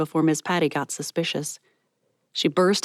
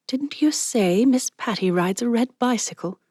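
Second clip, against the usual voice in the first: lightly higher friend voice; Ezra, curious; 6 semitones higher than usual. Acted. Ezra asking Mallory about Miss Patty, curious. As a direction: ask it brightly.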